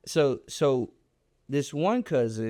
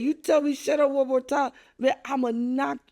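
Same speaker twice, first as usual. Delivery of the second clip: retold threat; 11 semitones higher than usual. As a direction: square up and warn him. I put my head in his face.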